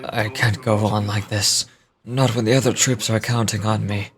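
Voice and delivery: weary despair. Acted. Wounded soldier despairs alone.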